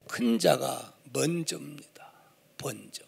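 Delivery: hushed emphasis on 먼저; whisper. Real, not acted. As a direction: breathe the word 먼저 as a secret. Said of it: "preacher whispers key point". (설교자가 먼저를 속삭이며 강조)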